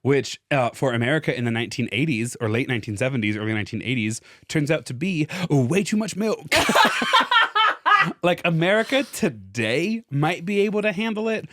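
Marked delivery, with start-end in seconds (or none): 4.5-11.5 laughing. Real, not acted. Laughing at too much milk.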